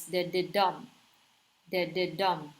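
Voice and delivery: "de, de, dum" with each DUM accented; two unaccented beats and a strong third in "de, de, dum"; anapest stress pattern. Shown as a demonstration. Teacher showing another anapest, accent on "dum" in "de, de, dum". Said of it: "first two are unaccented and the third syllable is accented".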